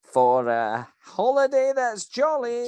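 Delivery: leading the crowd to chant along; Scottish manager drilling the slogan into the crowd; call-and-response lead. Acted. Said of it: "everybody with me".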